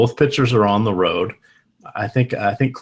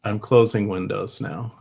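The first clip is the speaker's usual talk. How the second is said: laggy robotic call audio; choppy stretched internet voice; slow motion robot. Real, not acted. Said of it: "a slow motion robot".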